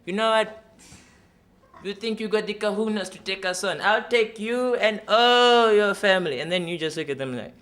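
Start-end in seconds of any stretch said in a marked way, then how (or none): 0.0-6.4 swagger like a Rocky wannabe; Italian tough guy. Retold or imitated. Italian relatives threaten the comedian like boxers, Italian accent. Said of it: "the Italian men".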